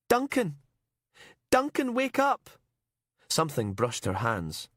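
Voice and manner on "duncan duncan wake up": high, loud desperate cry; trying to wake him; panicked shout. Acted. Heather screams at unconscious Duncan.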